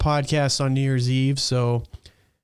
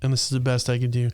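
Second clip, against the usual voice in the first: lips on fire; faster than usual. Real, not acted. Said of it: "my lips are on fire".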